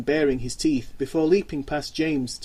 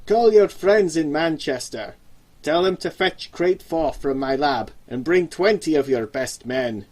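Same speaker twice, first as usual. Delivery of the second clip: calm suggestion; 4 dB louder than usual. Acted. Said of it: "the old man suggested calmly".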